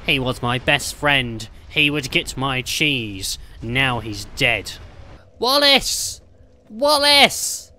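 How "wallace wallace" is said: screaming his name in grief; anguished cry. Acted. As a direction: wail it out to the sky. Grieving cry for dead friend.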